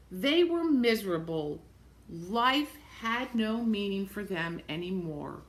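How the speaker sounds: storybook reading voice; measured read-aloud narration; reading to children. A narrator's reading. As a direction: read the book aloud to the class. Reads picture book aloud.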